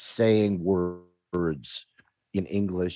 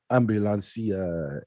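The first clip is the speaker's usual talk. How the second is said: slow, drawn-out Italian "ambulancia"; Italian accent. Shown as a demonstration. Retelling a video meme, lilting Italian accent. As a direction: imitate the Italian speaker from the meme. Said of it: "the Italian person says".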